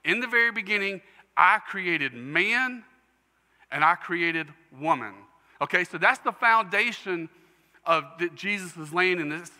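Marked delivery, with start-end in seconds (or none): 0.0-5.1 voicing God. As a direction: declare it as God himself. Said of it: "the first thing he's teaching".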